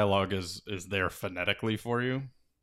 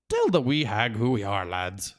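urging the lads to proclaim; Feegle boast; 5 dB louder than usual. A narrator's reading. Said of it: "said the helmet twiddler".

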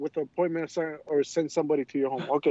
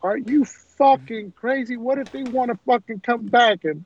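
higher-pitched, indignant retold outburst; freaked-out aunt; 6 semitones higher, 5 dB louder than usual. Aunt reacting to the scam call, flipping out. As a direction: imitate someone flipping out in disbelief. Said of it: "my aunt flipped the fuck out".

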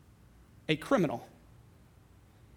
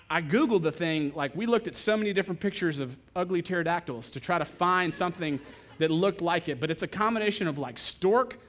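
ordinary talk, nothing marked

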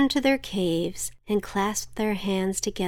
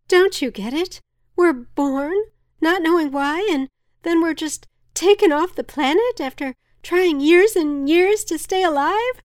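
high, loud existential yell; despairing shout; 9 semitones higher, 7 dB louder than usual. A narrator's reading. Villager shouts into the void, loud despairing cry. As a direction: shout it at nobody in particular. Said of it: "some shouted to no one in particular".

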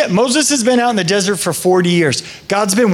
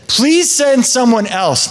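slow, drawn-out begging; pleading Moses; 4 semitones higher, slower than usual. Retold or imitated. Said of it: "Moses says".

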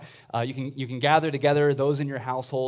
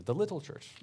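a light, joking hint of a Scottish accent on the little church, said softer; mock Scottish accent; 3 semitones higher, 7 dB quieter than usual. Priest jokingly imagines a church father saying it in a Scottish accent. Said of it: "perhaps he said it with a bit of a Scottish accent".

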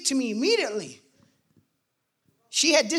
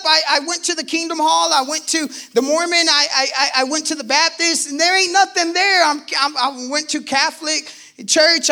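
heated rant; 4 semitones higher, 5 dB louder than usual. Retold or imitated. Cussing her out about church.

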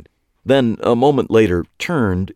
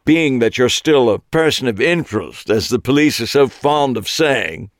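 conspiratorial but loud; 5 semitones higher, 4 dB louder than usual. A narrator's reading. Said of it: "shifted into a conspiratorial tone that was almost louder than his regular voice".

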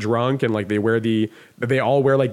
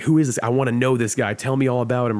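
curious questioning. Retold or imitated. Retelling old bar owner asking about a newcomer, curious. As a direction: ask with keen interest, a touch raised. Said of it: "He was curious. He was like".

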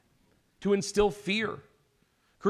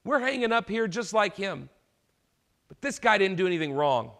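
rebuking; 3 semitones higher than usual. Retold or imitated. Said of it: "he rebukes him and says".

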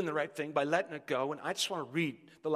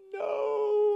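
long, high, loud "no" howl; anguished mock wail; 7 dB louder than usual. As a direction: wail it out in exaggerated despair. Edison reacts to broken bulb.

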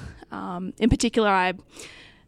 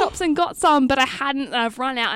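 mildly higher, louder imitation of an apologetic caller; apologetic retelling; 4 semitones higher, 4 dB louder than usual. Older voter explains the missing blue tack to campaigner, apologetically. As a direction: retell her excuse with a lifted voice.

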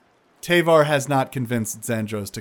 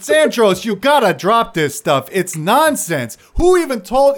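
high, loud exasperated scolding; Tavar's voice; 10 semitones higher, 7 dB louder than usual. Acted. Tavar scolding Zandros, high exasperated voice. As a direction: tell him off in disbelief. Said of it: "He's like".

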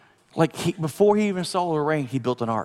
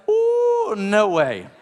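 cold water shock; 3 semitones higher, much slower than usual. Retold or imitated. Toe dipped in freezing spring, mock shocked squeal. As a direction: yelp like a toe just hit freezing water. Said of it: "it's like".

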